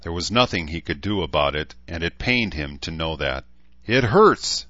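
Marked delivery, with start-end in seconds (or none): 3.9-4.7 snarled. A narrator's reading. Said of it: "she snarled".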